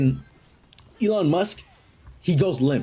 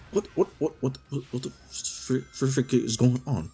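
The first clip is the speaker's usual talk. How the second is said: confused stammer. Acted. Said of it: "Elon is like".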